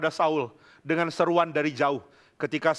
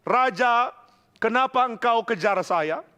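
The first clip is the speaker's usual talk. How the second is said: mild retold anger, raised pitch; angry reproach; 5 semitones higher than usual. David to his king who hunts him, mildly angry reproach. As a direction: plead indignantly, acting out the protest. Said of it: "Lalu Daud marah kepada Saul".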